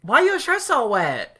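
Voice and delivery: put-on loud, very high Asian-accented caricature; ornery mock Asian accent. ER staffer questioning sick patient, ornery mock Asian accent. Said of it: "She's like".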